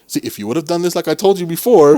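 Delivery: condescending scolding. Retold or imitated. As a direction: imitate someone talking down to a trainee. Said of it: "You talk to them like they're stupid".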